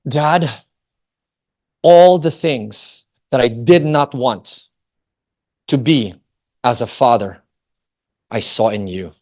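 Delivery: understated hurt, slow with long pauses; halting, mildly pained confession to a father; tearful son, retold. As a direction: quote a hurt son haltingly, without crying. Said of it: "crying more. And he says".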